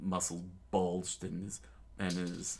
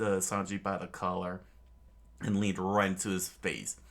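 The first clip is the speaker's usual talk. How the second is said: lightly voiced Luffy. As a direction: lecture like a chill dude. Luffy voiced as laid-back dude.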